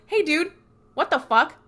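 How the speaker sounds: a hammed-up furious brother; mock angry confrontation. Sam confronting his dad, mild mock anger. Sam pissed walking into room.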